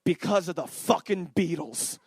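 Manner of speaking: slow, low, deliberate barber's complaint; grudging Italian barber. Retold or imitated. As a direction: lay it down slowly with bitter weight, lightly imitated. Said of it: "he said this verbatim, he goes".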